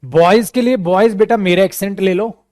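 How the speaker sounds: usual speaking voice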